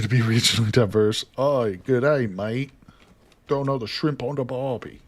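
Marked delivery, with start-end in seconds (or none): 1.4-5.0 bad Australian accent. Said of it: "I can't do it. I'm not good at voices".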